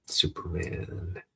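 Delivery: soft, drawn-out, breath-only call; weak call. Acted. Boy calls through smoke to a hero, weak call. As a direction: call out slowly with little voice. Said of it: "I've got to yell louder".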